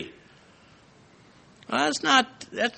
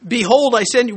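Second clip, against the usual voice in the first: "Behold" pitched up and pressed, biblical proclamation; emphatic; 5 semitones higher, faster than usual. Shown as a demonstration. Preacher showing how the Bible says behold, emphatic. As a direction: declare "Behold" emphatically, raised above normal talk. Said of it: "it's emphatic".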